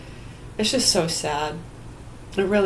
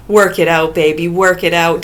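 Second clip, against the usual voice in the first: a touch of a peppy coach; 2 semitones lower than usual. Pretend. Mock coach jogging chant.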